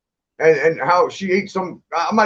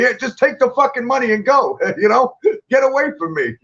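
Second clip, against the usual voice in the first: mock exasperated yell; 5 semitones higher than usual. Imitating annoyed passersby giving in.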